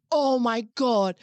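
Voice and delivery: slow, hammed-up outburst; dramatic reaction. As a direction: exclaim it slowly, imitating an overdramatic friend. Quotes friend's dramatic reaction to news.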